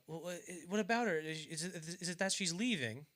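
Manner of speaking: halting question in a put-on British voice; British accent. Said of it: "I don't know why they're all British".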